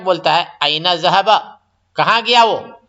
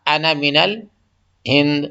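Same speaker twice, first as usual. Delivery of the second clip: drawn-out لا, then the Arabic sentence very slowly; very slow model answer; 3 semitones lower, much slower than usual. Shown as a demonstration. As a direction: stretch every word for learners. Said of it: "تو بولیں گے".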